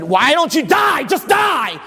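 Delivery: mock devil urging him to die; devil taunting. Preacher voicing the devil to Jesus, taunting. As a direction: sneer it out as the tempter.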